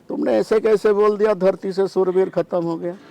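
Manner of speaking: angry Lakshman. Retold or imitated. Lakshman rebuking Janak over his words about warriors, angry. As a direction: demand an answer, acting out outrage. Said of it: "Lakshman इतनी गुस्से हो गया".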